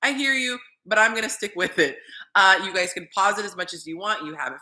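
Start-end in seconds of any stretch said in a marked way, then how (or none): 0.0-2.0 high "Mm" then polite but firm; humming agreement before refusing to budge; sassy brush-off. Retold or imitated. Answering critical feedback with a sassy brush-off. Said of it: "I was like".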